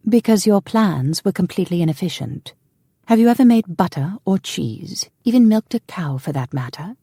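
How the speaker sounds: defiant retort. A narrator's reading. Woman retorts in a quarrel.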